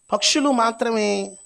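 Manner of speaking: high, loud and slow on పక్షులు; emphatic point. Real, not acted. Preacher stresses key point. (పక్షులు అనే మాటను గట్టిగా ఎత్తుగా)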